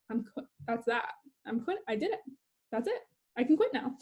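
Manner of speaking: murmured to herself, half-believing; quiet relief to herself. Retold or imitated. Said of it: "I was like".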